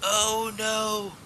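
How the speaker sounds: sudden alarmed oh no; gasp, realizing you forgot something; dismayed gasp. Real, not acted. Host remembers forgotten trivia.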